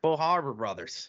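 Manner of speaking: put-on softly echoed Boston accent; mock Boston accent. Echoing his brother's joke, mock Boston accent. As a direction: copy the dropped-R Boston accent lightly. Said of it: "I did Boston accent there".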